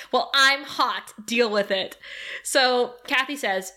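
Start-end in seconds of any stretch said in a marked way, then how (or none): 0.1-1.9 slow, pointed comeback, acted out; snippy retort. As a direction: imitate an irked roommate firing back. Acted retort in roommate quarrel.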